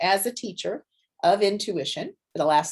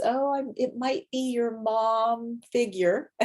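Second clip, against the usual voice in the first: tentative guess; 4 semitones higher, slower than usual. Shown as a demonstration. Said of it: "even with the disclaimers".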